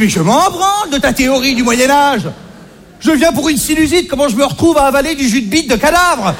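exasperated patient. Retold or imitated. Acted quarrel with homeopath.

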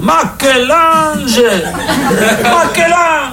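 put-on proud Italian father, heavy Italian accent; strong Italian accent. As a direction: draw out "Michel-Ange" in thick Italian. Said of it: "avec un fort accent italien".

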